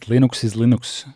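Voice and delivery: Linux said LIN-ooks both times; native pronunciation. Shown as a demonstration. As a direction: say Linux with a short "lih", rhyming start with "lin". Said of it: "you can't rename it".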